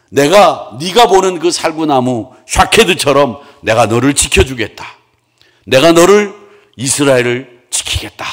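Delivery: God making a promise. Acted. God promising the prophet to protect Israel, emphatic divine pledge. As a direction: proclaim it firmly, lightly in role.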